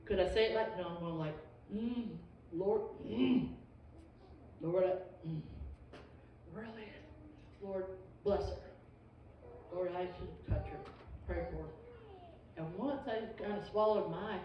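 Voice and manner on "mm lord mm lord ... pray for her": choking on words. Retold or imitated. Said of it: "you're just choking on the word".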